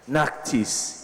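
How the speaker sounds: Naktis said softly with a drawn-out s; soft, hissing s in Naktis; sibilant. Acted. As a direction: lean on the s in Naktis, quietly. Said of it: "he says sibilantly".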